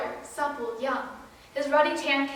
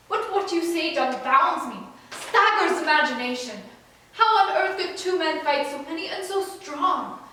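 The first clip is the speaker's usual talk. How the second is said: incredulous; 2 semitones higher, 6 dB louder than usual. Acted. Son dumbfounded by his father's plan to fight so many, incredulous. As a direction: balk at an impossible plan.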